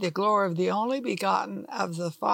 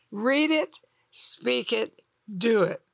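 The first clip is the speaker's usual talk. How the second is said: excited; 2 semitones higher than usual. Real, not acted. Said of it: "I'm so excited".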